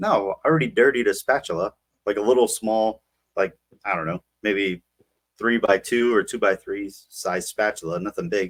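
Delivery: ordinary talk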